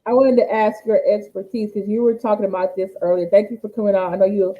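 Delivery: muffled like in a tunnel. Real, not acted. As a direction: voice sounds far off and muffled. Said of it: "but you sound like you're in a tunnel".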